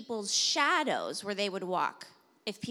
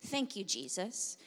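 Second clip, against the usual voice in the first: softer, murmured thanks; soft prayer demo; 3 semitones lower, 9 dB quieter than usual. Shown as a demonstration. Pastor modeling a quiet prayer for the congregation. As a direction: show them how to whisper thanks. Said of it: "I want you to just start saying".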